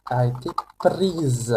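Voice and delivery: "prise" ends in a buzzing z sound; French a été prise with a voiced z. Shown as a demonstration. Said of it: "now the pronunciation changes too".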